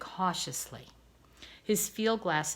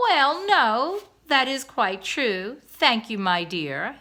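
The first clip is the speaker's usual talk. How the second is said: flustered, higher and louder; 4 semitones higher, 6 dB louder, slower than usual. A narrator's reading. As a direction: caught off guard, stammering politely. Husband taken aback.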